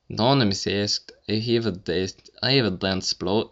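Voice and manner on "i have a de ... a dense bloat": bad Russian accent. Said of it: "try and answer this next one in, like, a, in an accent".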